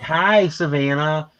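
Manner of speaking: high, very drawn-out greeting; stretched, cooing hello; baby voice. Shown as a demonstration. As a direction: greet a shy cat in slow baby talk. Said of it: "I talk to her in a baby voice".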